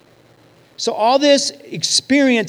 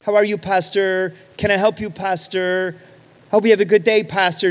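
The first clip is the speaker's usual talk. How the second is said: mimicking polite greetings. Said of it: "what happened to, 'Hello, Pastor".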